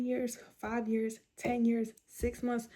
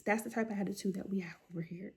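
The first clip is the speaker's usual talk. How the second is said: soft unvoiced whisper, confiding; whispered aside; 6 dB quieter than usual. Real, not acted. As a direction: lean in and whisper it to the viewers. Aside about her attitude.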